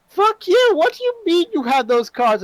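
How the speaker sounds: high, loud angry yell; furious outburst. Acted. Sore loser at strip poker yelling about the cards. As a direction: explode at the card table. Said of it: "and he goes".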